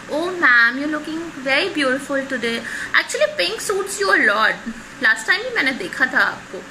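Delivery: lightly acted sweet-talk; butter them up a little, mildly hammed-up; flattering. Visitor flattering the receptionist to skip the line, mild flattery. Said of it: "He will try and flatter that receptionist".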